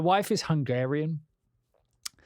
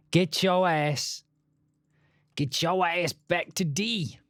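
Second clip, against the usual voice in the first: mock command; 4 semitones higher, slower than usual. Mock slogan repeat, drawn out.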